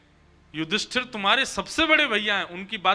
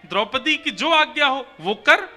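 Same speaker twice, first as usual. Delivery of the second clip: raised, emphatic rebuff; mildly indignant refusal; 5 semitones higher, 5 dB louder than usual. Acted. Bhagwan turning Arjun's question back on him, indignant. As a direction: push the decision back at him, higher and louder.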